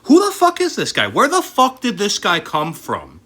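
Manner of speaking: high, loud outraged yell; exasperated shout. Real, not acted. Yelling at the screen about this guy. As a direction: bellow it in disbelief. Repeated question, second shouted.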